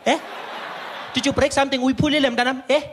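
put-on high, loud baby-talk taunt; caricatured gloating receptionist; mock pity. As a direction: rub it in with fake sympathy. Receptionist feigns pity for broken voice.

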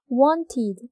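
wanted with the ending said clearly as "id". Shown as a demonstration. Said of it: "id 이렇게 발음되죠". (wanted의 끝을 id로 또렷하게)

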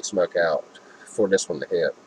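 speaking around vape mouthpiece; words half-blocked by mouthpiece; talking with vape at lips. Real, not acted. Seen 1: vape held in hand first, then at lips from 1.4s.

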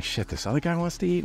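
a sudden high yelp of dismay; alarmed surprise. Retold or imitated. Art student realizing another man wants a meal, alarmed high. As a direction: panic about stretching ten dollars. Dismay at extra guest, tight budget.

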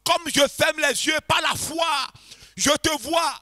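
prière ardente qui monte; model prayer, rising. Shown as a demonstration. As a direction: lead them in crying out to the Lord. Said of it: "et dis-lui".

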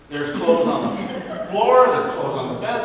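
chuckling through the list of mess; amused disbelief at the clothes everywhere; laughing. Real, not acted. Laughing at messy room.

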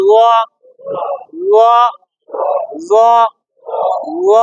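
"ল" said thick, with rounded lips; rounded-lip sound. Shown as a demonstration. Teacher drills the letter again, thick round-lipped "ল". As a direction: round the lips fully on each "ল". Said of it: "ঠোঁট গোল".

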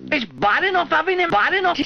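high cackling witch. Acted. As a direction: screech like a kettle witch. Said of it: "said the kettle witch".

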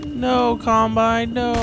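mock terror. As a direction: ham up being scared of the Combine. Mock panic at Combine.

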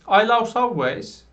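slow, careful English; slow model sentence. Shown as a demonstration. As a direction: say it slowly for learners. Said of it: "Dediğim gibi like de olur".

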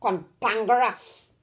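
"Cantankerous" slow, with a heavy stress on TAN; stressed word. Shown as a demonstration. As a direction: lean hard and slowly on "Cantankerous". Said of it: "We like to stress on the words".

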